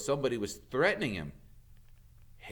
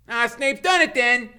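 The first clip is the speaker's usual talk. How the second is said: put-on higher, louder alarmed boy; Ron; 13 dB louder than usual. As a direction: blurt the bad news. Ron's voice.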